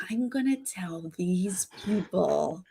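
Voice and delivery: slow, hushed whisper; imitated whisper. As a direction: whisper the plan slowly, like a secret. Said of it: "quite adorable that she was like".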